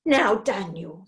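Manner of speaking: severe. Acted. Witch scolding the boy, slow and stern. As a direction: stop him short like a strict aunt. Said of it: "said Hecky severely".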